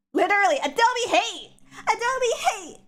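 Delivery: loud, high yelled complaint; mock outrage. Real, not acted. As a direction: yell it in playful fury. Rant at Adobe crashing.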